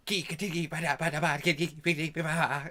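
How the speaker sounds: nonsense-syllable fake laugh; Frieza. Badly dubbed villain laughing to fit lip flaps, mock cackle. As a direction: rattle off choppy syllables ending in a laugh. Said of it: "it was obviously that Frieza was laughing".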